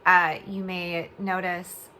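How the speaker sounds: speaking through a swollen jaw after oral surgery; slightly slurred words from a swollen mouth. Real, not acted. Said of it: "I'm talking kind of funny".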